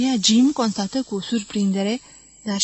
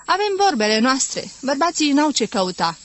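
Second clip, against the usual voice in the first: louder, cheeky shooing away; bold teasing; 4 semitones higher, 5 dB louder than usual. Acted. Wives keeping Jim out of women's talk, cheeky and louder. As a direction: shoo the men off with a bold grin. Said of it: "răspundeau îndrăzneț femeile".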